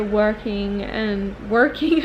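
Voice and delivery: "working" drawn out with an American accent. Real, not acted. Vlogger accidentally sounding American on "working", American accent. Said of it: "I sounded so American".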